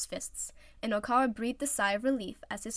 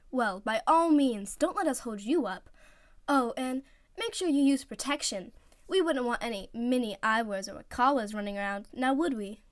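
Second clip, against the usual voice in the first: mock teasing; 3 semitones higher, 4 dB louder than usual. Teammate teasing Oikawa and Iwazumi, sly grin. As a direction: rub it in, grinning.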